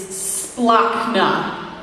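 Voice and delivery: splachna said slowly, SPLAHK-nuh; Greek word. Shown as a demonstration. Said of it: "Can you say that with me?".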